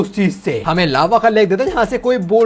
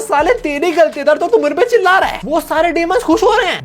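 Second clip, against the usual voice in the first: mock angry monster; 7 semitones higher than usual. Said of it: "lava monster बोलता है".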